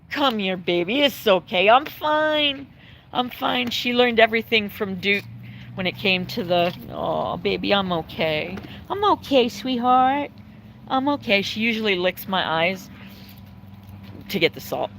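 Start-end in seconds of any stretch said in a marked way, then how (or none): 0.1-3.7 tender reassurance, rising higher at the end; calm the worried dog, sweet and teary; soothing the dog. Real, not acted. Owner soothing her dog that noticed her tears, tender. 6.9-11.4 tender reassurance. Real, not acted. Soothing dog licking her tears.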